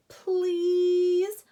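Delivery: high, loud desperate plea; pleading. A narrator's reading. Mouse begs the gopher for rescue, pleading. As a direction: beg for help. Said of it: "pleaded Ralph".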